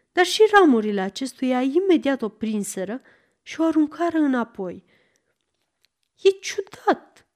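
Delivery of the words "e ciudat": slow, higher-pitched exclamation; a girl's mild exclamation; exclaiming. A narrator's reading. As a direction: remark on it in puzzled surprise, drawn out. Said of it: "exclamă Dorothy".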